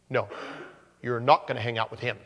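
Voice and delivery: quick, firm parent voice; a hint of a stern parent. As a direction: lay down the law to a kid. Parent warning a child.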